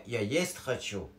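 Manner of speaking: reordered phrase "یا یست خچو" spoken slowly; slow teaching demo. Shown as a demonstration.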